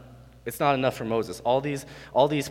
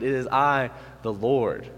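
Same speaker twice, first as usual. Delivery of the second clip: God snapping back; 3 semitones higher, 4 dB louder, slower than usual. Acted. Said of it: "He snaps back at it".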